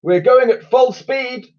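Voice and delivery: put-on high, slow old admiral. A narrator's reading. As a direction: play the pompous admiral. Admiral character voice.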